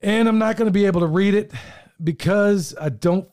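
real emotion catching the words; choked up. Real, not acted. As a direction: voice tight and fast, holding back tears. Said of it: "I'm getting a little bit choked up here".

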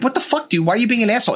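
a touch of heckling passengers; mock outrage. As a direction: call him out like annoyed passengers. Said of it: "everyone around him too is like".

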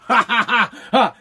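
a short put-on ha ha ha; mock laugh. Podcaster acts out laughing at the line, put-on laugh. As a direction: laugh it off like you don't care. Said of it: "I die laughing".

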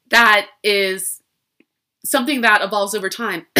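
hoarse, strained voice giving out; losing voice. Real, not acted. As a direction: voice fading and going raspy. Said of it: "Sorry, I'm losing my voice already".

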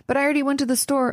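a touch of a put-out parent; frustrated protest. Retold or imitated. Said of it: "They may be frustrated".

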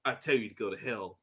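a hint of a cold arms dealer; low cold movie line. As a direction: deliver it icy and low, almost under breath. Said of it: "he was like".

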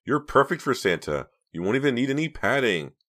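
high, loud mocking voice. A narrator's reading. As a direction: rub it in, mocking. Reva mocking Rob.

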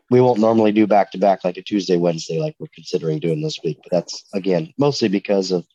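blocked nose from a cold; nasally. Real, not acted. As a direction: talk through a stuffy head cold. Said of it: "I'm, I'm nasally".

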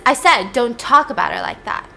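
retold angry repeat, somewhat firmer; insistent warning. Tate warning Chase a second time, insistent and irritated. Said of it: "Tate hears this and he's pissed".

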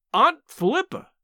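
high, breathless gasp of amazement. A narrator's reading. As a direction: gasp her name out in shock, rising. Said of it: "I gasped".

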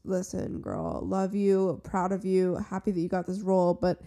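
put-on cold mean girl. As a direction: talk down to her softly. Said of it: "And she is".

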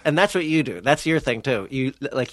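ordinary talk

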